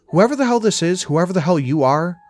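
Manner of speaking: loud, high-pitched telling-off; fed up and forceful; irritated outburst. Acted. Fed-up caller tells off the phone.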